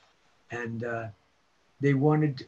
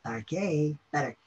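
ad voice. Retold or imitated. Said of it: "I used to go".

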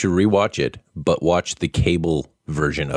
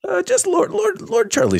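pompous lord. Acted. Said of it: "with it comes a certain lordship".

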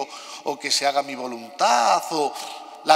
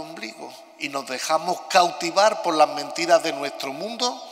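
cathedral echo. Real, not acted. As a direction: voice ringing in a big stone church. Homily recorded in a large church.

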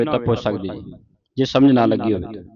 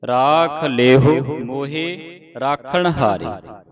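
very slow, measured scripture reading; deliberate teaching recitation with long vowels; slow model recitation; much slower than usual. Shown as a demonstration. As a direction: draw out each word for students to follow.

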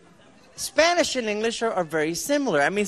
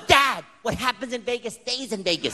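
put-on a touch of a little girl yelling; mock child yell; 2 semitones higher than usual. Little daughter jumping in front of dad, mild mock yell. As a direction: playfully imitate an indignant child's yell. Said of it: "thirty-five pound girl yelling at me".

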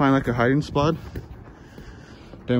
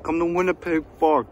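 loud, higher taunting call; taunting yell; 5 semitones higher, 4 dB louder than usual. Acted. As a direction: shout it out to lure them.

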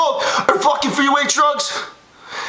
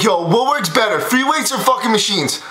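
lower, worn-out voice after yelling; tired, lower rasp after losing his voice; voice gone; 5 semitones lower than usual. Real, not acted. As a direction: push it through a voice that's just given out. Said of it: "I just lost my fucking voice".

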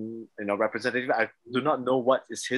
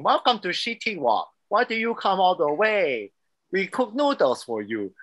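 a hammed-up stereotyped Asian accent, higher and slow; mock Asian accent; 5 semitones higher than usual. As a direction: parody the South Park Asian accent, slow and high. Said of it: "the worst Asian accent".

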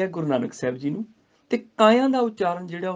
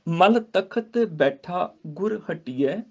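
slow measured Gurbani recitation; much slower than usual. Shown as a demonstration. Teacher recites the verse to students, slow. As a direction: chant each word with pauses.

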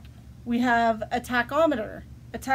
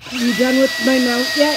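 impatient nagging; 5 dB louder, faster than usual. Acted. Nagging again in skit.

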